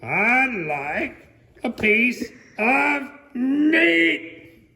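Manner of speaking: loud, high, slow shout. Acted. Mister Noisy shouting at Mister Bacon, slow and loud. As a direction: drag out a booming shout. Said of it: "Mister Noisy shouted".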